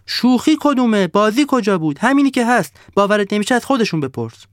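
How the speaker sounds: high, loud furious snowman; angry roar. Acted. The angry snowman roaring at the laughing sun, high and loud. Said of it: "آدم برفی عصبانی نعره زد".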